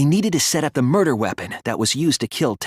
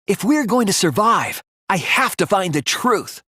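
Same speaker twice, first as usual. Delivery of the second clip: higher, firm vow to himself; resolute; 6 semitones higher than usual. Acted. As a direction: steel yourself to find the truth.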